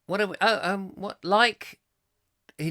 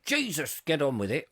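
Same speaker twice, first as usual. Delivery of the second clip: exasperated; 3 dB quieter than usual. Retold or imitated. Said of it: "Are you saying".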